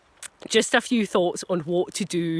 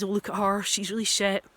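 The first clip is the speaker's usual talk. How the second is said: mock sneer. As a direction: sneer at her under your breath. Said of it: "say to their friends".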